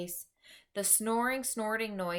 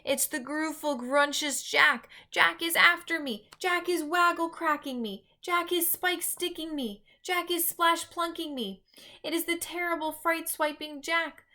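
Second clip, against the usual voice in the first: much higher, louder frantic wailing; terrified giant; 9 semitones higher, 5 dB louder than usual. A narrator's reading. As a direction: rant in rising terror at Jack. Giant's terrified nightmare rant.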